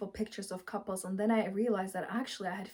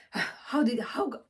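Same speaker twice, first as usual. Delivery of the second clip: mock angry rant; 4 semitones higher, 3 dB louder than usual. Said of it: "I'm saying".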